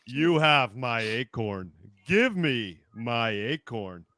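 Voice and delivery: a hint of dopey low Kronk; lightly voiced big lug; Patrick Warburton impression. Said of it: "worst Patrick Warburton impression".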